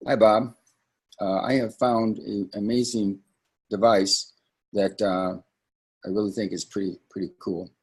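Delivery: a limp, dwindling sales pitch without passion; unexcited pitch. Shown as a demonstration. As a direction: sound bored and half-hearted. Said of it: "You don't wanna say".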